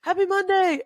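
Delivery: very high, loud whooping cheer; spunky cheer. Retold or imitated. Cheering a classmate's hundredth class at the gym, shrill whoop. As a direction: whoop like a cheerleader hyping the room. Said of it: "I always like to be spunky".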